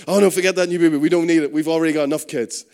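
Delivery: loud, brushing-off dad, mock-indignant; dismissive dad. Preacher voicing a dad in a story, loud and dismissive. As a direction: play the dad waving off the new baby. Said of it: "the dad's like".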